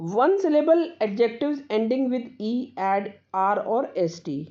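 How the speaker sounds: slow, careful reading of a rule; slow dictation. Acted. Teacher dictating a grammar rule to students, slow and careful. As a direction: read the rule slowly so students can copy it.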